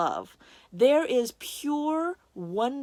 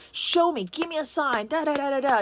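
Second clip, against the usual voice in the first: higher, insistent mock plea; retold demand; 5 semitones higher, faster than usual. Speaker retelling how they demanded a sign from God, insistent. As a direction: demand proof from God, then rattle it off. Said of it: "I was basically demanding of God".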